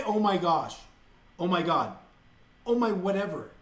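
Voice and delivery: emphatic demo. Shown as a demonstration. Ranting vlogger to viewers, a loud firm demo. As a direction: show them how it should be said. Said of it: "Just say".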